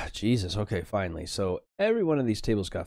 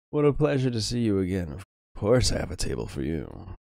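snooty waiter; 2 semitones higher, 6 dB louder than usual. Acted. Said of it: "says the maitre d'".

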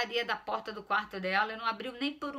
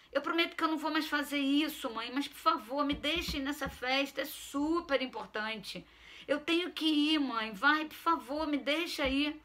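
son pleading, higher and pushy; begging teen; 5 semitones higher than usual. Acted. Son begs mother to let him go, pleading. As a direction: whine please over and over.

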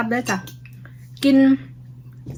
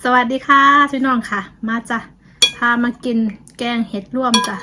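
calling out; 5 dB louder than usual. Real, not acted. Calling viewers to come eat.

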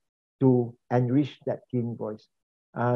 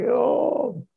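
imitated high-pitched singing note; 10 semitones higher than usual. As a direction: jump up high, mimicking a singer. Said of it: "switch to that very high pitch".

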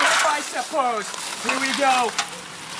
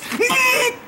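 high laugh; 12 semitones higher than usual. Real, not acted. Gloating over his own plan.

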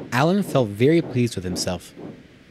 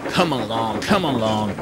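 steady, repeated puffed chant; puffing engine. A narrator's reading. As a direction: chug the words out rhythmically. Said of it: "he puffed".

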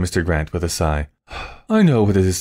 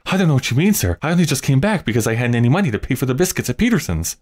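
put-on alarmed boy; 5 semitones higher, faster than usual.

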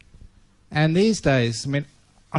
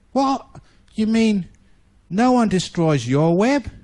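amazed disbelief; 6 semitones higher, 4 dB louder than usual. Acted. Sad spider amazed by safe web.

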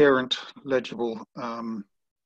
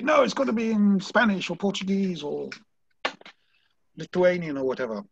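higher-pitched mock objection; judge's refusal; 6 semitones higher than usual. Judge turning down an English protest, mock refusal. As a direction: voice an objecting official, pitch raised then easing down.

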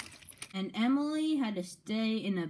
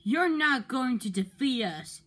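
cross; 5 semitones higher, 3 dB louder than usual. Acted. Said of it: "said Henry crossly".

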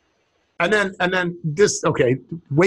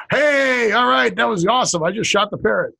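higher at first, mock-elated cheer; excited winner; 4 semitones higher than usual. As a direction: celebrate like a lucky gambler. Acting out a lucky gambler.

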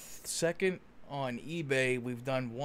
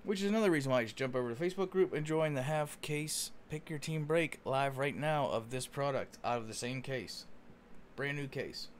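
rapid hype card breaking. Real, not acted. Fast sales plug for live break.

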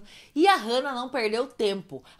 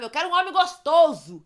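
higher, louder mock holler; imitated shout; 5 semitones higher, 5 dB louder than usual. Imitating friend hunting men at carnival, mock shout. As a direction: laughingly holler it like her. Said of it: "É isso que ela gritava".

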